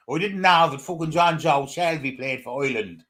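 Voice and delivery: hammed-up, terrible Irish accent; badly faked Irish brogue. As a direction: do a poor mock Irish accent. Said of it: "that's a terrible accent".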